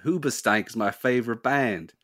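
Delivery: modest, shaky-grasp Australian accent; attempted Australian accent. Shown as a demonstration. Host retrying an Australian accent on request. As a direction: try for a better Australian, not quite landing it. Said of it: "trying to do a better Australian".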